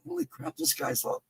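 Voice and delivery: high, hushed, stunned; awed holy crap. Retold or imitated. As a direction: breathe it out in disbelief. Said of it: "and it's like".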